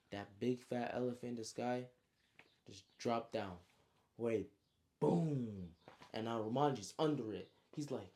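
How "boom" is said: long drawn-out boom; booming impact noise. Retold or imitated. Storyteller sounds the elephant dropping from the sky, drawn-out boom. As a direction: sound out a heavy crash.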